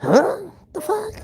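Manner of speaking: baffled huh. Retold or imitated. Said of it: "and I'm like".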